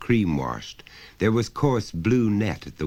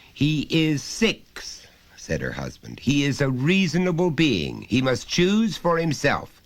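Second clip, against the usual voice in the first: firm father; 9 semitones higher, 3 dB louder than usual. Acted. Husband overruling wife about their son, pompous. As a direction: lay down the principle.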